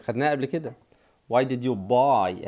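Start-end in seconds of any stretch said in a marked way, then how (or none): 1.3-2.5 slow, word by word; slow teaching. Shown as a demonstration. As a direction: model it slowly for the class. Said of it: "اهي".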